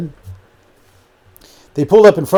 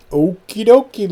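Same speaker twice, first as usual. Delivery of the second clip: higher, lightly put-on voice; agreeable reply; 8 semitones higher than usual. A narrator's reading. Luke agreeing as Lulu leaves, higher agreeable voice. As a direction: lightly voice an eager young man, pitched up.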